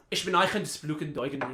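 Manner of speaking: fake German. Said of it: "He doesn't know German".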